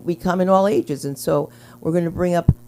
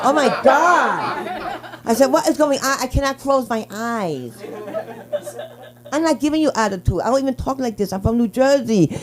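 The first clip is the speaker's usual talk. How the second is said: retold panic; 6 semitones higher than usual. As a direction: complain in a higher voice.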